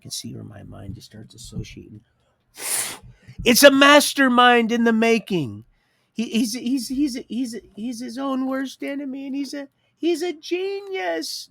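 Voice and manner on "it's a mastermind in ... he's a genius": loud and high, stuttering with excitement; hyped. Real, not acted. Man raving about his racing mind, hyped. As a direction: crank it up like a proud hype man.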